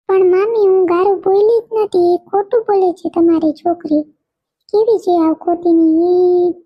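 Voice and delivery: a kid swearing she didn't say bad words; protesting child. Little girl protesting to her mother that she is innocent.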